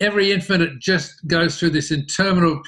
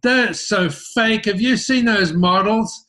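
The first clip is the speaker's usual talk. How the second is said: lightly voiced young surfers, slow and a bit higher; mocking surf kids; 4 semitones higher, slower than usual. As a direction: drag it out like scornful grommets mocking the ads. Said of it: "they all came out going".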